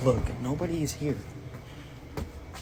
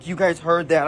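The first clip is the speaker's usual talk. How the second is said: startled, higher and louder; alarmed; 3 semitones higher, 4 dB louder, slower than usual. Real, not acted. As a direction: shaken after being smacked. Just got hit, alarmed.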